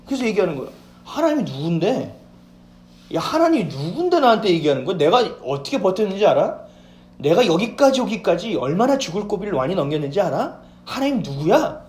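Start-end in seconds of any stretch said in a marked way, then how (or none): 1.0-2.2 dismissive. Acted. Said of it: "라고 우리는 얘기해요". 3.1-11.8 arrogant scoffing. Acted. Proud believer scoffing at God, defiant. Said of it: "라고 우리는 얘기해요".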